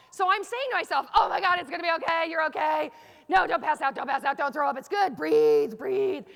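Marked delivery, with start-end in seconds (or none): 1.1-6.3 mock frantic pep talk to yourself; panicked self-talk. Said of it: "doing that in my inside voice".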